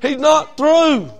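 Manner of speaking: prophetic declaration. Retold or imitated. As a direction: deliver it like a prophecy. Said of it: "She said".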